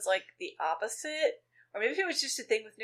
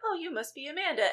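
high, sweet imitated greeting; lightly acted, much higher-pitched niceness; nice older lady; 8 semitones higher, faster than usual. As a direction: greet kindly as a friendly nanny. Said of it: "she seems nice 'cause she's like".

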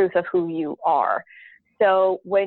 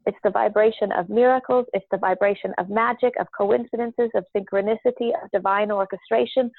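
channeled council voice. Acted. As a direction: speak as a wise collective spirit. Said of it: "So my voice changes a little bit".

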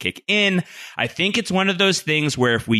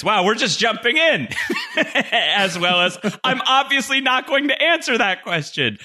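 silly mock voice; 9 semitones higher than usual. Quoting the creator's evasive reply.

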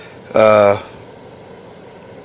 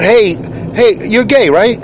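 higher, mock blurted greeting; hammed-up awkward greeting, a touch higher; wrong way to greet; 9 semitones higher, slower than usual. Shown as a demonstration. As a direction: blurt it out like a clueless stranger. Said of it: "I mean, not".

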